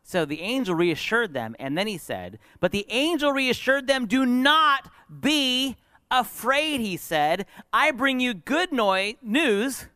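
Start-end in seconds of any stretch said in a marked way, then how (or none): 2.6-4.1 much higher, ringing pulpit delivery; preaching proclamation. Acted. Preacher retelling the angel's visit, high proclamation. 4.1-9.9 high, slow, drawn-out heavenly announcement; proclaiming angel. Acted. Angel announcing news to shepherds, grand proclamation.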